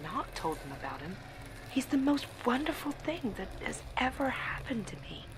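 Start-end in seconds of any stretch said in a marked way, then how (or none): 1.7-5.3 breathless, adoring whisper; dreamy whisper. Acted. Bride gushing about her husband in her diary, whispered. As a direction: hush it like a secret crush.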